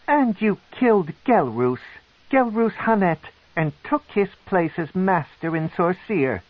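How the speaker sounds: lightly voiced high snarl; a cold, accusing matron. A narrator's reading. The matron accuses Alton, a mild snarl. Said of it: "her voice a snarl".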